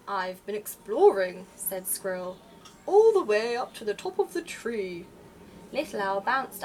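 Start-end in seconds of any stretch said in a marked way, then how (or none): 0.1-1.5 squirrel voice. Acted. 2.9-5.1 louder, changed voice for a lively squirrel. Acted.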